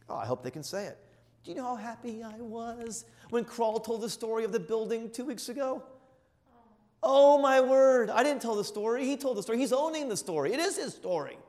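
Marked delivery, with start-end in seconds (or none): 1.4-5.8 high, excited voice bubbling over; gushing proud father; overjoyed retelling. Retold or imitated. Retells his own joy at son. 7.0-8.1 high, loud and slow burst of joy; joyful exclamation. Retold or imitated. Joyful exclamation within retold joy. 8.1-11.4 high, excited voice bubbling over; gushing proud father; overjoyed retelling. Retold or imitated. Retells his own joy at son.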